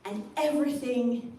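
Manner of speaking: very slow, drawn-out American caricature; American accent demo. Shown as a demonstration. Comic showing audience an American accent, slow American drawl. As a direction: stretch each word out in slow American monotone. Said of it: "If you want to do an American accent".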